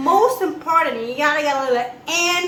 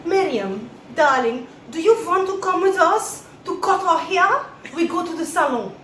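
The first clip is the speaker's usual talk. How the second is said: hammed-up fake French accent, higher and louder; mama's pretend French accent; 5 semitones higher, 5 dB louder than usual. Mama calls to her friend Miriam in the lobby, fake French accent. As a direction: put on a grand, fake French accent for English words. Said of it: "you don't know how to speak French".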